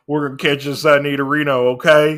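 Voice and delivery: loud, lightly Texan twang; a bit of hammed-up Texan; mock Texas accent. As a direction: announce it as a playful Texan. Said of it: "when did Red get a Texas accent".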